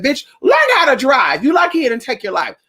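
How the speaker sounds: loud shout at a bad driver; shouting at a reckless driver; retold shout out the window. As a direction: yell it through the car window. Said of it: "I rolled the window and I said".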